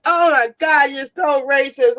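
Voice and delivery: imitated appalled sister. Sister scolding her over seasoning remark, mildly appalled. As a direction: mimic a scandalized sister, dragging the accusation. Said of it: "she was like".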